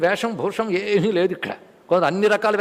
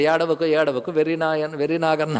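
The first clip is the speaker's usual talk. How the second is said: lower-pitched, lightly voiced consoling; mild coaxing; 4 semitones lower than usual. Krishna soothing a weeping Arjuna like a silly child, mildly coaxing. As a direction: gently coax someone out of crying. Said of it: "అన్నట్లుగా".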